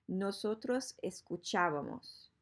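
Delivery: "escuchábamos" stressed on the accented á; teacher's model of "escuchábamos", stress on CHÁ. Shown as a demonstration. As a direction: lift the intonation on the á of "escuchábamos". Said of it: "the intonation goes up on the A".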